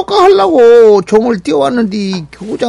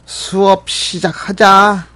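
teacher voice. Acted. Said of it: "담임 선생님이 수업을 하러 들어오셨죠".

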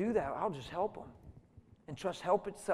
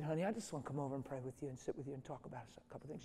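hushed, kindly reassurance; gentle; 8 dB quieter, faster than usual. Retold or imitated. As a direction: comfort someone quietly, retold. Pastor soothes the bawling woman.

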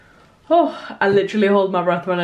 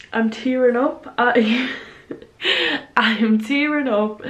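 higher, emotional laugh through tears; tearing up; 4 semitones higher than usual. Real, not acted. Reacting to a viewer's comment, tearful laughing. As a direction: laugh at yourself as the tears come. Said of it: "I didn't think I was in an emotional mood".

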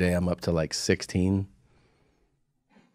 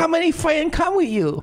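put-on high-pitched caricatured Asian accent; mock Asian accent. Comic plays restaurant worker to his friend, in a mock Asian accent. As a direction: play it up in a broad Asian accent. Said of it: "most racist Asian accent".

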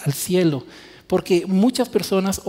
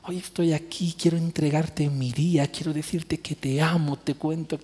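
softer, tender morning prayer to God; intimate prayer; 4 dB quieter than usual. Shown as a demonstration. Preacher modelling a personal morning prayer for the congregation, soft and tender. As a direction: speak it gently, like greeting a close friend. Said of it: "póstrense delante del Señor y díganle".

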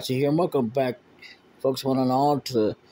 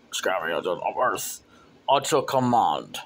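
low creepy minion voice; 5 semitones lower than usual. Acted. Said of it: "Why did you speak your own name?".

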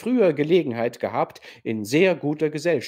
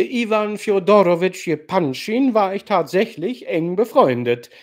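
prahlerisch, lauter und höher erzählt; großspurig vor der Gesellschaft renommieren; redseliger alter General; 3 semitones higher than usual. Acted. (der General prahlt redselig vor Nastassja)

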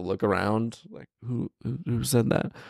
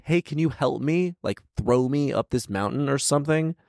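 mock plea; 6 semitones higher than usual. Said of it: "Just be like".

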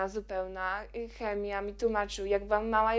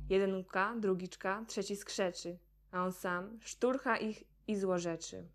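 measured verse reading with clear line breaks; poem recitation. Acted. Girl reciting Mandelstam's forbidden poem mocking Stalin, restrained poem recitation.

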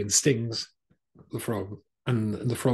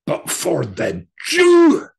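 high, slow, loud stress on Jew; emphatic build; 9 semitones higher, 11 dB louder, much slower than usual. Retold or imitated. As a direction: lean hard into the word Jew. Retold fascist speech climax.

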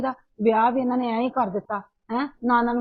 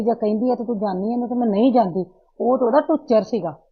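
angry scolding; 4 dB louder than usual. Acted. Mother's quarrel with daughter escalates.

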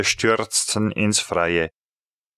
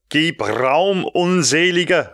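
call out; 5 semitones higher than usual. A narrator's reading. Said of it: "rief ich".

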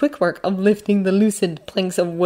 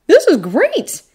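put-on high boy's voice, heartfelt; sincere, appreciative; 10 semitones higher, 5 dB louder, slower than usual. A narrator's reading. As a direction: thank him earnestly as a grateful kid. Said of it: "he says with a sincere".

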